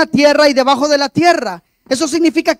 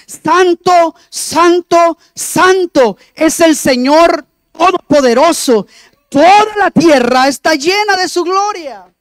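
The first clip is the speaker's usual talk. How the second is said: exclaimed praise, each "santo" set apart and raised; reverent exclamation; 3 semitones higher, 4 dB louder than usual. Acted. Angels calling to one another before the throne, exclaimed in reverence. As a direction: proclaim it in a raised, emphatic voice. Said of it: "exclamaban esa expresión".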